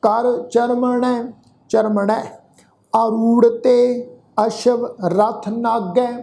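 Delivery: slow, measured Gurbani recitation; scripture recitation. Shown as a demonstration. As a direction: draw out each word of the verse, evenly paced. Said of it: "ਇਸ ਦਾ ਪਾਠ ਰਲ ਮਿਲ ਕੇ ਉਚਾਰਨ". (ਹੌਲੀ, ਠਹਿਰ ਕੇ ਗੁਰਬਾਣੀ ਪਾਠ)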